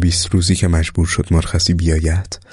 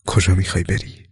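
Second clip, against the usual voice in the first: choked up. A narrator's reading. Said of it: "و با بغض پرسیدم". (با بغضی ملایم و آرام)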